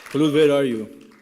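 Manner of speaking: loud call across the hall. Real, not acted. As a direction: call out to find someone in the audience. Calling out friend in audience.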